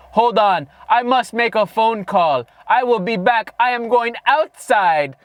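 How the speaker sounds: imitating a solemn lawyer with a stray Jamaican accent; measured, put-on Jamaican accent; accidental Jamaican accent. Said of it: "I don't know why my guy sounds Jamaican".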